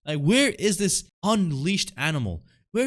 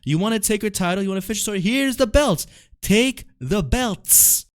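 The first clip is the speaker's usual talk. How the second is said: imitating Roman Reigns; 7 semitones higher than usual. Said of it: "he said to Cody".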